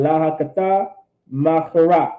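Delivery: "La hakata makara" said smoothly, syllables linked; rolled off the tongue. Shown as a demonstration. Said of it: "Just let it roll off the tongue".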